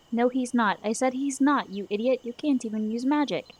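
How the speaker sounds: put-on girl furious at the madman; angry retort. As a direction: snap back in defense of the teacher. Girl angrily defends teacher.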